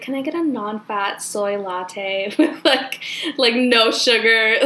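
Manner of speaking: mock LA coffee order, drawn out; LA accent. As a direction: stretch it like an LA parody, breaking into a laugh. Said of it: "a very l-, L A order".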